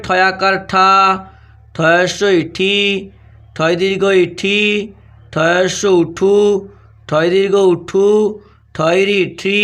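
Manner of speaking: very slow, drawn-out syllables with pauses; spelling dictation. Shown as a demonstration. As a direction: dictate each letter combination slowly, stretching the final vowel. (ধীরে টেনে টেনে বানান বলা)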